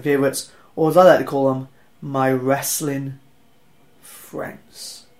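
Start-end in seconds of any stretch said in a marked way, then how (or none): 2.0-5.1 whispered. Acted. Show title whispered slowly.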